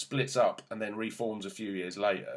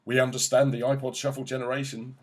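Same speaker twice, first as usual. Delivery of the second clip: mock eager-to-be-hip band, louder and higher; raised voice, mocking a band courting teens; pandering to teens; 4 semitones higher, 6 dB louder than usual. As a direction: put on a loud, cringey pitch to the teenage crowd. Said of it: "wink at the, uh, the teenage crowd and go".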